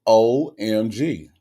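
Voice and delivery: slow, spelled-out OMG; slow, measured raving; drawn-out OMG. Real, not acted. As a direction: savour each letter, stretching it out. Raving about Costco muffins.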